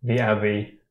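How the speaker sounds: commanding. Acted. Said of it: "with as much authority as he can muster".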